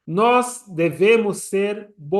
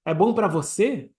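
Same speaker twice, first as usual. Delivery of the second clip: slower, full-voiced challenge, no pleading; presumptuous pitch; slower than usual. Shown as a demonstration. Worshipper telling Hashem what is good for him, presumptuous. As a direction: put it to them boldly, without humility. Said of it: "Mas não falar".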